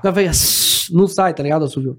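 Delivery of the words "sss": airy hiss of a whistle; failed whistle. Shown as a demonstration. Guest demonstrates his whistling tic failing, airy hiss. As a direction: try to whistle, only air comes out. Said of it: "Que eu conseguia assoviar".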